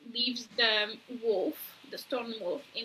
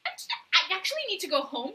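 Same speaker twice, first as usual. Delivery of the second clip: flustered excuse; 3 semitones higher, faster than usual. Retold or imitated. Retelling a smitten man making excuses to leave, flustered. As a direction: rush out a mock-awkward excuse.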